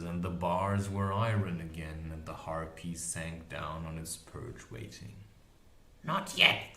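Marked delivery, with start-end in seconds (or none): 6.0-6.7 high, loud warning crone; witch voice. A narrator's reading. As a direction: hold the monster back. Witch to harpy.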